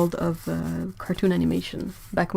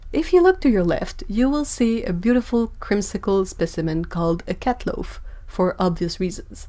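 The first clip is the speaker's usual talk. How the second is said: tour guide voice. Retold or imitated. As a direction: read it like a museum tour guide. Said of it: "with the tour guide voice".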